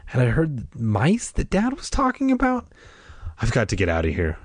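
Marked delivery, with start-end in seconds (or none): 3.4-4.4 said aloud. A narrator's reading. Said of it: "I said aloud".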